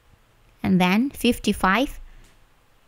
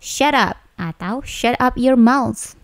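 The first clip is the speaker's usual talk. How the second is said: higher, slow mock-angry command; mild demonstrated anger; 4 semitones higher, slower than usual. Shown as a demonstration. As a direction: demonstrate a cross order, firmly but restrained. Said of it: "biasanya diucapkan sambil marah". (contoh ucapan agak marah)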